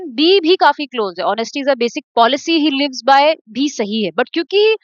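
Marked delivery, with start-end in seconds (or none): 1.3-3.3 slow read-aloud. Shown as a demonstration. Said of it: "teacher tries option B in sentence".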